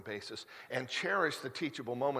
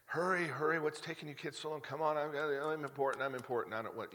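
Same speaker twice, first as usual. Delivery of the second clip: mock impatient hurry-up, a touch higher; impatient dad; 4 semitones higher than usual. Pastor mimics rushing his kids to the car, mildly impatient. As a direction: lightly imitate his rushed, self-important self.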